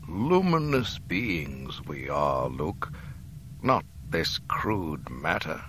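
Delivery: slow, faint dying voice fading to whisper; gentle rueful wisdom, slowly; self-deprecating. Acted. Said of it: "With a little self-deprecatory smile".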